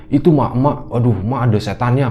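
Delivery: put-on frightened child. Child reports a devil to father, acted alarm. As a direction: play a child blurting out a scare. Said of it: "teriak sambil nangis".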